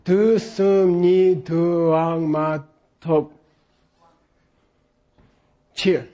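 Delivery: each syllable separate, even, ni du ang split apart. Shown as a demonstration. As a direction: read Du sum ni du ang one by one.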